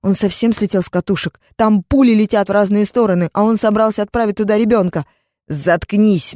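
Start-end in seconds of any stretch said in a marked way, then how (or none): 5.5-6.3 roar. Acted. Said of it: "взревел он".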